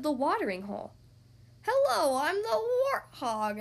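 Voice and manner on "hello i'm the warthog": much higher, louder hello; loud high warthog greeting; eager warthog hello. Acted. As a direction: greet brightly. Warthog introduces itself.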